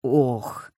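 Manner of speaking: a low, strangled oh; husband gasping at the crocodile on the floor; squeezed-out oh. A narrator's reading. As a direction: force the sound out in dread. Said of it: "выдавил он".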